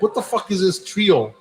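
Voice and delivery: mock-baffled at who he's dealing with; retold incredulity. Driver sizing up the parking crew, incredulous.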